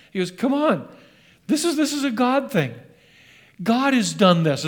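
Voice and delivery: loud, high, fervent apostle; Peter preaching. Retold or imitated. Peter rebuking the staring crowd at the temple, loud and fervent. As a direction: call out to the crowd with bold conviction. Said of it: "And Peter says".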